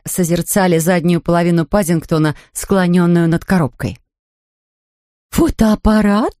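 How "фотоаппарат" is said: slow, higher amazed echo; stunned Mrs Brown. Acted. Mother echoes the bear, slow and stunned. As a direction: gasp it out at last. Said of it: "выговорила, наконец, миссис Браун".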